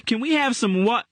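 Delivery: put-on a boy bursting in, cheerful; young boy Gerald. A narrator's reading. Gerald voiced by narrator.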